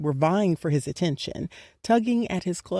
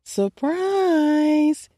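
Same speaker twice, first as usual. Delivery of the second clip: high shouted surprise; 9 semitones higher, 4 dB louder than usual. Acted. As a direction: yell it as a group. Crowd yells at surprise party.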